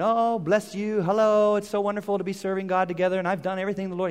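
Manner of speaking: mildly gushing retold chatter; running his mouth. Saul greeting Samuel with pious chatter, mock gushing. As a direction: rattle on, imitating an eager talker. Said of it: "just running his mouth saying".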